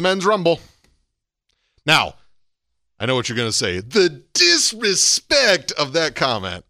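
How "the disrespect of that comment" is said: slow, drawn-out mock outrage; lightly put-on wrestler indignation; Undertaker. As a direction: stretch out DISRESPECT with theatrical weight. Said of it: "I always channel my inner Undertaker".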